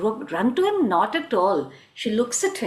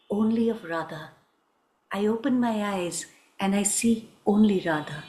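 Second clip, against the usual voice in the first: tender devotion; 4 semitones lower than usual. Acted. Krishna professes devotion to Radha.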